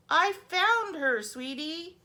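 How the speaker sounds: high, loud, slow mama voice; a mama comforting her little girl; sweet mother's voice. Acted. Mother comforting daughter about her doll, high and sweet.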